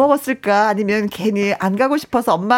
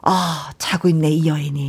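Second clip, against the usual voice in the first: drawn-out murmur, lower and slower; 6 semitones lower than usual. Retold or imitated. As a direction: murmur it low and slow, half asleep. Taeju voiced waking up.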